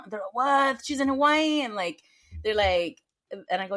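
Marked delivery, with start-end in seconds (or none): 0.3-1.6 imitating inmates' loud, high disbelief; retold astonishment, louder and higher; astonished reaction. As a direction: act out a startled question, pitched up. Inmates react to surprising news.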